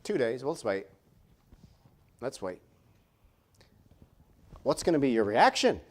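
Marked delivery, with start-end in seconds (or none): 0.0-2.6 calm and unhurried. Retold or imitated. Jesus calmly telling disciples to wait, soft. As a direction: gently hold them back. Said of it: "Jesus is like".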